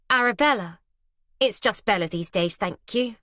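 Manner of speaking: lightly posh, affected introduction; airy and superior. Acted. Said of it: "wafting an affected, limp-wristed hand".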